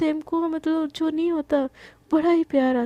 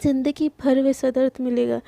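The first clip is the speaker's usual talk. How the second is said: tender. Acted. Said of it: "एकदम प्यार प्यार से ना".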